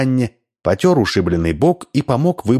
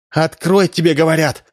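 insist, voice raised high; exclaiming; 7 semitones higher than usual. A narrator's reading. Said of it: "воскликнула Римма".

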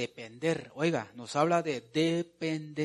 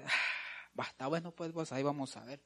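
doubtful; 7 dB quieter than usual. Acted. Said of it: "duda mucho".

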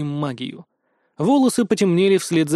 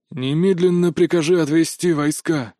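dry, controlled command. A narrator's reading. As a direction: order it in a voice dry as sand. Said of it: "Его голос был сухим, как песок".

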